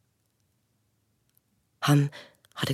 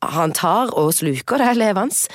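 higher, louder warning cry; alarmed princess; 6 semitones higher, 7 dB louder than usual. Acted. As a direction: warn him in fright. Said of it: "sa prinsessa".

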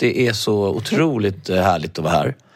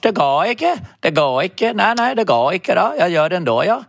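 mock Norwegian, high and sing-song; Norwegian accent; 8 semitones higher than usual. Friend mocks the clerk refusing in Norwegian. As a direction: imitate a Norwegian clerk saying no. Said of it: "säga till det på norsk".

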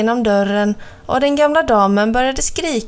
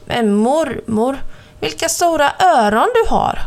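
put-on higher, amazed little girl; the girl stares at grandma's ears, higher and amazed; girlish wonder; 4 semitones higher than usual.

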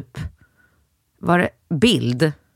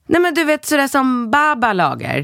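put-on high, bright-eyed kid voice, much higher; son's voice; 10 semitones higher than usual. Mother voicing her son about grandma's cooking, high kid voice. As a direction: pipe it up like a little boy.

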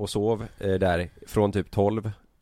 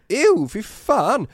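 high, loud, drawn-out mock disgust; disgusted outcry; 13 semitones higher, 5 dB louder, much slower than usual. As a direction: imitate someone recoiling in revulsion. Sanna upptäcker vad Meja äter. (härmat utdraget, äcklat utrop)

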